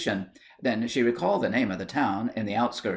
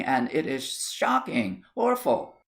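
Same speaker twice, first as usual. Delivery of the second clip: slow shocking, then awful leaps higher; mock horror; 3 semitones higher, slower than usual. Aunt hams up the scandal, awful much higher. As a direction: relish the horror.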